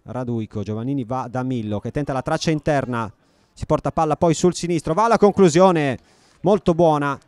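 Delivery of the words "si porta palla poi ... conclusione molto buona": excited commentary. Real, not acted. Shot on goal.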